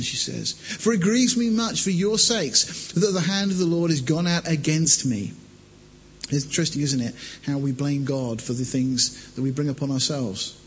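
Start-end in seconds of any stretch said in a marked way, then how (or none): 0.5-5.3 measured Bible reading voice; scripture reading. Acted. Preacher reads Ruth to congregation, measured. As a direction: read the passage steadily to the church.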